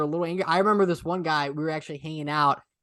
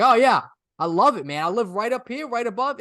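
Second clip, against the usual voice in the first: loud, higher boast that settles as it goes; imitated enthusiasm; 4 semitones higher, 4 dB louder than usual. Retelling the heckler admitting he loves doing this, gleeful. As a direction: play the proud local, gleefully.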